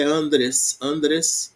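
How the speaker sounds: andres with the stress on AN; stress on penultimate. Shown as a demonstration. Teacher illustrating the plural accent rule, penultimate stress on andres. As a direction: say andres twice, weight on the first syllable. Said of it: "Penúltima sílaba".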